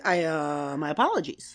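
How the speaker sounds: low, halting climb-down; falter, then apologize; stammered apology. Retold or imitated. Captain backing down before an attractive woman, stammered apology. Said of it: "he stammered over all of that".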